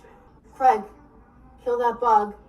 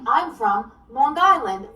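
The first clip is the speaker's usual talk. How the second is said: put-on Long Island accent; 3 semitones higher, 5 dB louder than usual. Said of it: "We as Long Islanders say things very differently".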